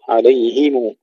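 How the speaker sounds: عليهم as "alayhimu", i after h; kasra on ha. Shown as a demonstration. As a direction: recite عليهم with a clear i on ه. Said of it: "ننتبه إلى كسر الهاء".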